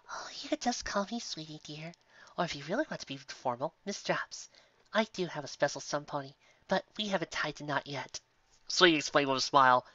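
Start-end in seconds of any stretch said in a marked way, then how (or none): 0.1-8.2 sweet baker mare. Acted. Sweetie answers softly.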